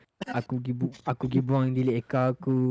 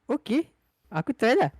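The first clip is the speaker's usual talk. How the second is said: high mock inner voice; 9 semitones higher than usual. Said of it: "aku macam".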